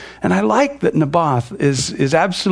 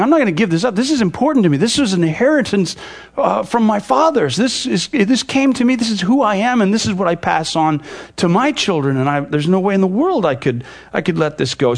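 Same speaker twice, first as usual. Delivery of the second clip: emphatic Naboth; 2 semitones higher than usual. Retold or imitated. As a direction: lightly act out an emphatic no. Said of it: "Naboth's response is emphatic".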